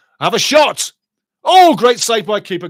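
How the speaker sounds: loud shout, pitched high.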